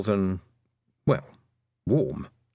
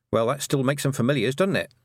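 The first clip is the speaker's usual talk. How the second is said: annoyed retort; 4 semitones higher than usual. Acted. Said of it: "Tiffany retorted, feeling annoyed".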